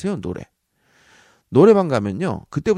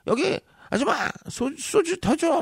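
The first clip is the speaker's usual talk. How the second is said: high, slow call for more soju; calling the waitress. Pretend. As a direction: shout across the bar for soju. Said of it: "막 이러면서". (높고 느리게 소주 더 달라고 부르는 손님)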